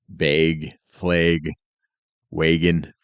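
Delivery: Bag, flag, wagon with a long Minnesota A. Shown as a demonstration. Showing how Twin Cities speakers say their A's, long Minnesota vowel. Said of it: "the way they say their A's".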